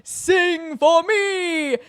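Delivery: slow, drawn-out dramatic command; hammed-up serious Phantom. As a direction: plead it slowly and gravely like the Phantom. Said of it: "very seriously looking at Toad".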